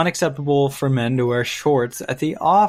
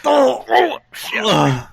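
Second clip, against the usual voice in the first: startled; 9 semitones higher, 4 dB louder, much slower than usual. Real, not acted. Startled by something.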